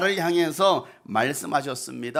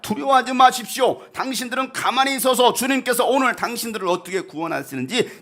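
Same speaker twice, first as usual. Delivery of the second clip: raised, emphatic call to the people; loud proclamation; 5 semitones higher, 3 dB louder than usual. Acted. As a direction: proclaim it like a leader to a crowd. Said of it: "모세가 큰 소리로 외칩니다". (백성에게 크게 외치듯)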